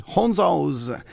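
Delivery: deliberately miss the Dublin accent on Hunzos; botched Irish take on Hunzos; wrong accent. Shown as a demonstration. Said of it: "That's the wrong accent, isn't it?".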